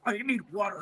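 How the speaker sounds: thin pitiful whine; dying child voice. Retold or imitated. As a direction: croak it like a dying kid. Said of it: "Sound like a fucking dying child".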